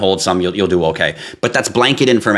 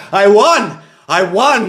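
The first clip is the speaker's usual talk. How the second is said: high, loud triumphant crow of a bird; gloating rooster; 11 semitones higher, 3 dB louder, much slower than usual. Pretend. Late pet rooster gloats in heaven, high triumphant voice. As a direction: crow it out like a winner. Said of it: "Cock-a-doodoo's like".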